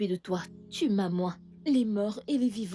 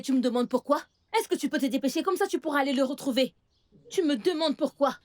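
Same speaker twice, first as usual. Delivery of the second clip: scolding; 4 semitones higher than usual. Acted. Aunt scolds girl for questions.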